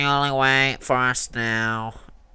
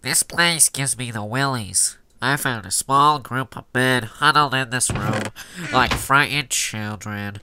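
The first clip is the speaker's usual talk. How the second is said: pinched nasal nose-held voice; holding nose. Shown as a demonstration. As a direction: read with your nose pinched. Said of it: "I'm gonna hold my nose".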